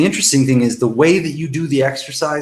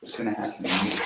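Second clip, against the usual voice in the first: soft acted whimpering, pitch leaping high then sinking; worked-up victim; 4 semitones higher, 7 dB quieter than usual. Shown as a demonstration. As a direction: play the helpless, fretting victim. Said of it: "you get yourself worked up like that".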